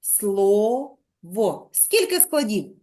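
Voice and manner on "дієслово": Дієслово said very slowly, split into syllables; teacher dividing the word into syllables for the class. Shown as a demonstration. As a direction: break Дієслово into slow separate syllables. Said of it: "Поділіть на склади".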